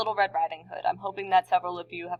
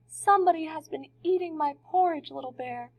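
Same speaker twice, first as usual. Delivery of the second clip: quiet voice; 9 semitones higher than usual. A narrator's reading. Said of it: "said in her quiet voice".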